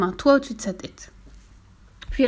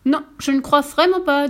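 Fifi plus sonore; 6 semitones higher, 5 dB louder than usual. Acted. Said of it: "dit Fifi".

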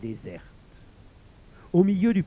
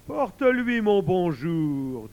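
slow yawning tiger; 3 semitones higher, 5 dB louder, slower than usual. Acted. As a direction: yawn through the words. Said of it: "dit le tigre en bâillant".

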